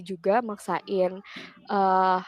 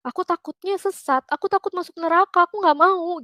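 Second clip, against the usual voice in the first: put-on higher, anxious retelling of her old fear; sounding scared of going astray; retold fear; 8 semitones higher, 5 dB louder than usual. Woman recalling her fear of hell, higher and anxious. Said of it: "aku tuh takut".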